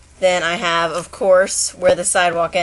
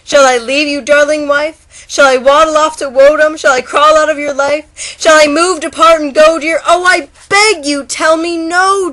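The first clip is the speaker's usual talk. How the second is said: much higher, louder desperate begging; pleading turtle; 9 semitones higher, 8 dB louder than usual. Acted. Heartbroken turtle begging the bagpipe, desperate high plea. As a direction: beg her not to let you go. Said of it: "Said the turtle to the bagpipe".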